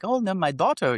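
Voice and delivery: high-pitched mock Asian accent; stereotypical Asian accent. Asian driver chatting to passenger about his daughter, mock Asian accent. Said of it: "kinda stereotypical Asian".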